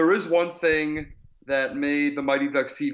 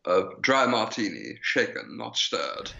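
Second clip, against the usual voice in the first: lightly voiced, lower-pitched secret agent; Sean Connery; 4 semitones lower than usual. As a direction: order it like a suave Bond. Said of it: "we should talk about Sean Connery soon".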